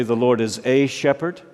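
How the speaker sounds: "a" said as a full, weighted AY; stress on A. Shown as a demonstration. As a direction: lean on the little word "a" in "a shepherd". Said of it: "Notice that he did not say".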